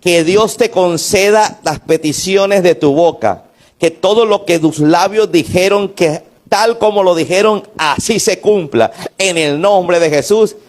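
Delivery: slow, solemn priestly declaration; solemn blessing. Acted. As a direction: pronounce the blessing slowly, like an old priest. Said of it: "voy a declarar una palabra sobre ti". (anciano sacerdote bendice a la mujer, lento y solemne)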